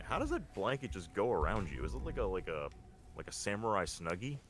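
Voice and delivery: ordinary talk, nothing marked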